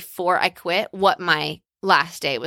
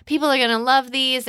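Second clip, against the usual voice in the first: lightly voiced giddy twelve-year-old, higher; excited daughter; 5 semitones higher than usual. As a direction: bubbly kid gushing over fabrics, pitched up. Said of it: "she was like".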